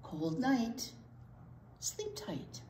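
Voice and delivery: soft hushed whisper on the last words; whispered bedtime rhyme. Acted. Librarian whispering a sleepy rhyme to children. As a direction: hush it like a child is asleep.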